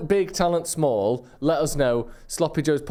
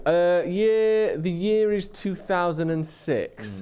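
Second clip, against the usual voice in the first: dramatic narrator; 5 semitones higher, much slower than usual. Acted. Dramatic story opening.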